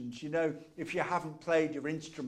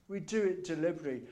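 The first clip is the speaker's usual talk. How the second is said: a quick, brisk restatement; fast repeat; much faster than usual. Shown as a demonstration. Preacher repeating his point to the congregation, fast. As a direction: rattle the line off quickly.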